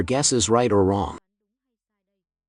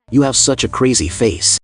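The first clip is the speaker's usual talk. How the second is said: taunting; 7 dB louder than usual. Acted. Clown taunting the loser.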